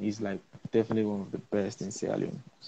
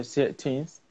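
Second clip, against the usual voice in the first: trying on a British accent; British accent attempt; 3 semitones higher, slower than usual. Shown as a demonstration. Guest showing the host his attempt at a British accent. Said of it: "say this in a British accent".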